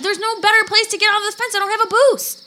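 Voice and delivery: frustrated. Acted. Stuck at the fence, frustrated.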